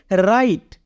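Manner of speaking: राइट with the W silent, starting on R. Shown as a demonstration. Teacher showing how write is said, राइट with silent W. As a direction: say राइट beginning straight on the R sound. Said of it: "क्या बोलेंगे?".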